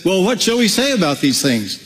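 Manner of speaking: asked like a doubtful query; puzzled question. Shown as a demonstration. Preacher shows the wrong reading, puzzled. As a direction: read it as if unsure what to say. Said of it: "He's not saying it like that".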